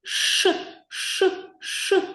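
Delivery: "ш" as a long, unvoiced hiss; sound demonstration. Shown as a demonstration. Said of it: "вимовляємо".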